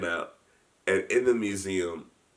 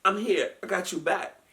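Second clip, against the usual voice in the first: higher, louder fatherly pep talk; guard telling the host no crybabies, higher and louder; old security guard; 11 semitones higher, 8 dB louder than usual. Retold or imitated. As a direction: buck him up like an old guard. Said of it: "He says".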